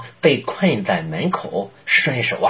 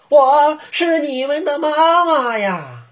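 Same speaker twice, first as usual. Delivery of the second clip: high, sweet false mother voice; a wolf putting on a mother's voice; wolf faking mother. Acted.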